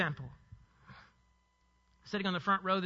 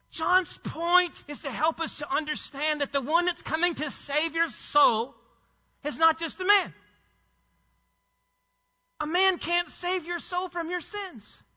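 raised pitch, slowing on the key phrases; earnest, high-pitched preacher's insistence; impassioned preaching; 6 semitones higher than usual. Real, not acted. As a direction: press the point home, high and forceful. Preacher presses his central point.

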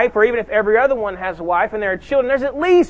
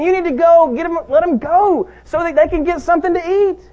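anxious disciples; 7 semitones higher, 4 dB louder than usual. Retold or imitated. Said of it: "the disciples are saying".

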